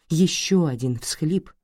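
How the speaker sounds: usual speaking voice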